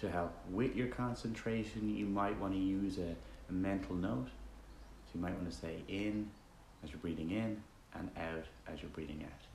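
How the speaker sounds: relaxed, conversational meditation leading with roomy silences; guided meditation. Acted. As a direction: guide listeners gently with long pauses between instructions.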